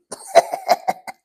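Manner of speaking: laughing. Real, not acted. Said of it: "laughing at own reading".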